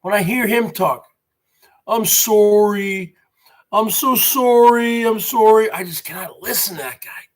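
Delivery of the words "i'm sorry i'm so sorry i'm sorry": drawn-out imitation of a Canadian accent; mock Canadian accent. Streamer mocking a rival's talk, exaggerated Canadian accent. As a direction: mimic a Canadian accent, stretching it out slowly. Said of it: "that Canadian accent".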